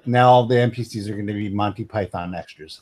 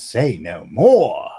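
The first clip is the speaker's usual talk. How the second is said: slow, knowing British copper; a lightly voiced British constable; 3 semitones lower, 4 dB louder, much slower than usual. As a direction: wink it like a Python bobby. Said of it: "The cop comes over and says".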